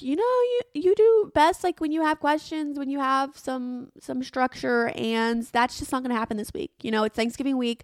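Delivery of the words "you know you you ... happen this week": lightly voiced editor, pitched up; a hint of the editor's high chirpy advice; editor impression. Editor chiding her gently in a higher voice. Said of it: "Santino, my editor's like".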